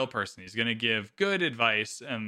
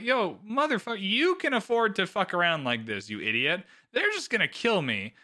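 mock indignation. Podcaster voicing Mazaria's complaint to Damon, mock indignant. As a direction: play a mildly exasperated telling-off.

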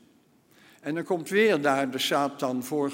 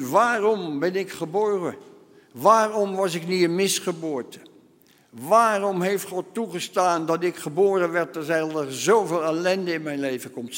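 raised, louder cries of why; anguished lament; 3 semitones higher, 4 dB louder than usual. Acted. Job cursing the day he was born, anguished. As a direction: cry out each waarom in despair.

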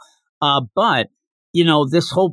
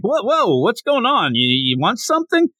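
startled Damien; 8 semitones higher than usual. Retold or imitated. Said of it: "He is like".

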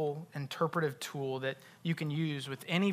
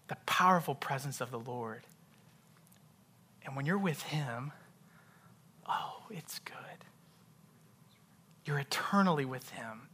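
hushed preaching. Real, not acted. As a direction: savor each phrase with long pauses.

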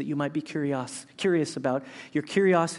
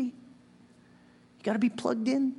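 slow emphasis; 7 semitones higher, much slower than usual. Acted. Sermon analogy punchline.

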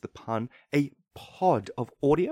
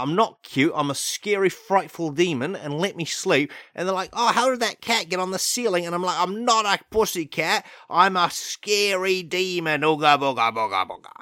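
louder, higher, hammed-up menace; mock scary demon; 3 semitones higher, 3 dB louder than usual. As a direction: try to sound frightening and fail.

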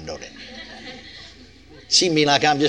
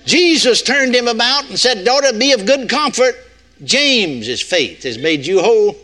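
raised scripture read, last line drops; mock misreading of scripture; 6 semitones higher than usual. Preacher teasing his listeners with a wrong verse, lofty. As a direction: intone it, then undercut the ending. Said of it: "No, took more than that".

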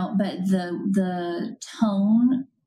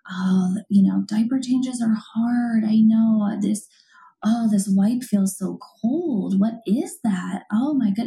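soothing parent voice; 3 semitones higher, 3 dB louder than usual. Shown as a demonstration. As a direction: gently narrate the cold wipe to an infant. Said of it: "So saying".

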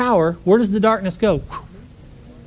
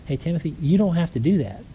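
gentle tone. Retold or imitated. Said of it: "just in tone of voice".

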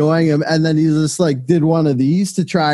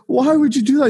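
whiny mock complaint; 10 semitones higher than usual.

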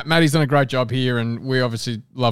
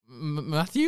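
stumped; 9 dB quieter, slower than usual. Retold or imitated. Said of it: "I was so stumped for a minute".

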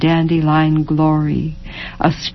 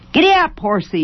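put-on child yelling; 9 semitones higher, faster than usual. A narrator's reading. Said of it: "yelled Jimmy".

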